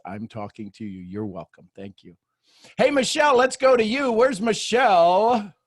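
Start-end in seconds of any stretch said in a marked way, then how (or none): 2.8-5.5 loud, high call across the room. Real, not acted. Host calling on Michelle to speak, loud call.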